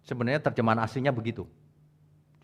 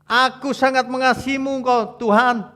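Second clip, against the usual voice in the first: sad plea; 11 semitones higher, 6 dB louder than usual. Acted. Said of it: "Petrus nangis sedih".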